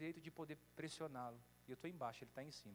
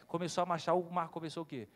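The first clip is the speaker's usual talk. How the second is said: loud, surging preacher's climax; shouting the sea opening before the congregation; preaching shout; 9 dB louder than usual. Real, not acted. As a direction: proclaim it at the top of your voice.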